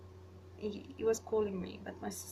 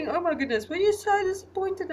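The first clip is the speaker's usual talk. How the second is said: mock sympathy; 10 semitones higher, 10 dB louder than usual. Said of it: "and he's like".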